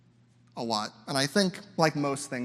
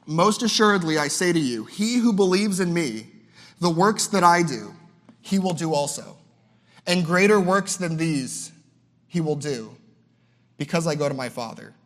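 measured preacher's reading of the verse; scripture reading; 3 dB louder than usual. Acted. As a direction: read it out like holy words. Reads scripture aloud.

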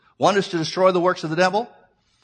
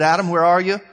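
calling out; 7 dB louder than usual. Retold or imitated. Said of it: "he called out".

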